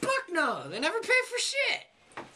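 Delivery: angry. Acted. Character refusing angrily.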